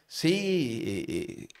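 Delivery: imitated prisoner shouting back; answering call. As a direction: call your name across to another cell. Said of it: "yo le contesté".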